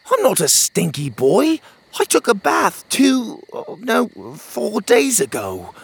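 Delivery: put-on high, indignant little boy; a kid insisting he's clean; young boy voice, protesting; child voice. A narrator's reading.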